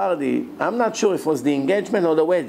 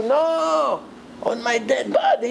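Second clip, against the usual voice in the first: much higher, forceful no; furious refusal; 8 semitones higher, slower than usual. Retold or imitated. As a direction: refuse with total finality. Grandfather refusing.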